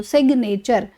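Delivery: "सिग्नेचर" as SIG-nature; G sounded. Shown as a demonstration. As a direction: let the G be heard in "सिग्नेचर". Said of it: "जी की देखो sound ले रहे हो".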